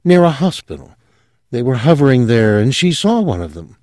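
confessing her strange family with rising fervour; a hint of a girl gone dreamy. Sylvia voiced in story.

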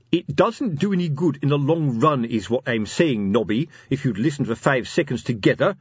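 sharp interruption, starting high; sharp, impatient. Acted. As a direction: cut in testily on your companion. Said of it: "said Fred Colon sharply".

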